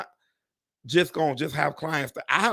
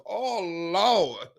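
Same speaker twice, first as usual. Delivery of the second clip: imitating a tearful groan; half-hearted cry of dismay; mock wail; 3 semitones higher than usual. Imitating her reaction to the oil change bill, mock wail. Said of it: "I was like this".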